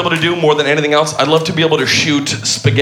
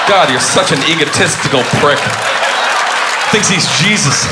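mock outraged shout; 2 semitones higher than usual. Mock outrage at audience member.

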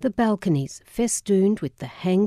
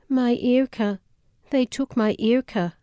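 put-on a little boy's wail in a thick Yiddish accent, raised higher; imitating a thick Yiddish accent; 7 semitones higher than usual. Aunt imitating the weeping Jewish boy, thick Yiddish accent. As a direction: mimic a child crying for Irka, thick Yiddish accent. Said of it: "My aunt imitated him with a thick Yiddish accent".

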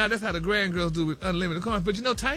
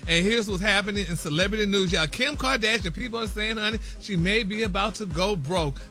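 chatty celebrity news read peppered with honey and y'all; sassy gossip news read; 2 semitones higher than usual. Acted. Radio host reading celebrity news to co-hosts, sassy gossip read.

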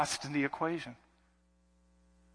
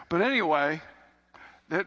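normal talking voice

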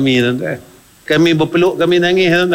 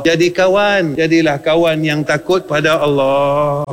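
slow exhortation. Acted. Exhortation recited slowly.

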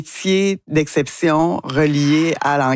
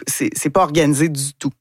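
ordinary delivery

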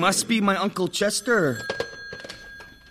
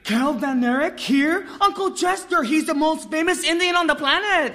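excited; 5 semitones higher than usual. Acted. Thrilled the star is in town.

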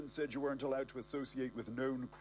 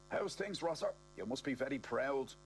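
put-on raised, cheery old man voice; 3 semitones higher than usual. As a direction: lift the pitch for a chirpy old man. Kenneth voiced in story.

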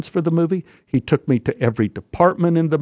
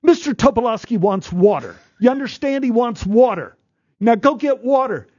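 put-on bossy kid; 8 semitones higher than usual.

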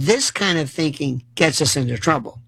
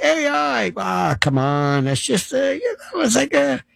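dismissive; 2 semitones higher than usual. Retold or imitated. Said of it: "I love when people say".

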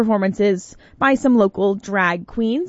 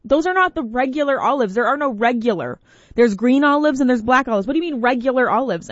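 higher, insistent protest; lightly voiced indignation; indignant; 4 semitones higher than usual. Host scolding wife over olives, mild indignant. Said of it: "I was like".

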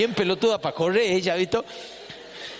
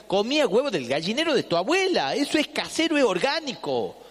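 mock wife; 4 semitones higher than usual. Wife scolding husband about the egg, higher nagging voice. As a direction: lecture him like the wife.

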